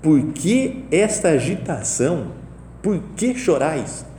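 slow, lightly voiced Jesus asking why they weep; a hint of Jesus calmly questioning; gentle questioning Jesus. Jesus entering the house asks the mourners, slow gentle voice. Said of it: "Jesus perguntou".

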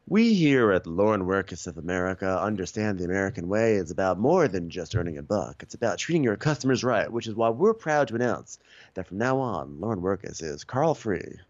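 mock corporate ad read; commercial voiceover. Company announcing its new values, mock ad read. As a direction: announce it like a feel-good company ad. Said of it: "one of those commercials".

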